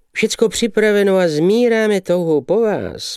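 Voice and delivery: high, gushing exclamation; whooping. A narrator's reading. Young man flatters the arriving lady, whooping. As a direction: call it out high with eager flattery. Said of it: "povikoval mladík".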